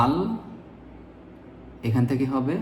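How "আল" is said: "আল" said alone as one separate syllable; broken-off syllable. Shown as a demonstration. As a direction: set "আল" apart with pauses. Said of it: "প্রথমে এভাবে ভেঙে ভেঙে বলবেন". ("আল" আলাদা করে, থেমে)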